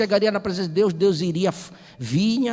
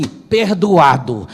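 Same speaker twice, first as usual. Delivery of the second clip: solemn pronouncement; 4 semitones lower, 5 dB louder, much slower than usual. Acted. Jesus stamps the book.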